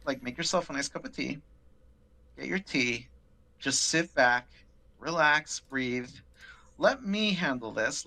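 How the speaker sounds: soothing customer-service patter, slightly lifted pitch; gently handle an upset caller; coddling. Retold or imitated. Claims agent calming an upset customer, coddling. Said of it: "coddling her and handling her".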